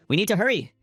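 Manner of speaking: rally everyone to move, pitched well up; urgent shout. A narrator's reading. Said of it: "Park Jin-sung shouted".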